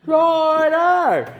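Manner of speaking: playful high mock voice; squeaky silly voice. Silly repeat of his own word.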